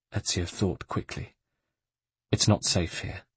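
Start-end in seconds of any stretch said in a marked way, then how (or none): 2.3-3.2 whispered urgent warning. Acted. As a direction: whisper it, danger near.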